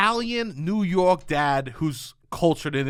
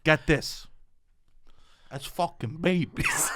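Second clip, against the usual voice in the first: lecturing dad impression; 5 semitones lower, 5 dB quieter than usual. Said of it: "He goes".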